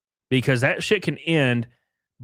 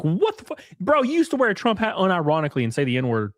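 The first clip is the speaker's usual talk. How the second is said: lightly raised, dismayed friend voice; mock dismay; 6 semitones higher than usual. Mourning a friend changed by a girlfriend, hammed-up dismay. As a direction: play up the betrayal of a lost buddy. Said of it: "And you're like".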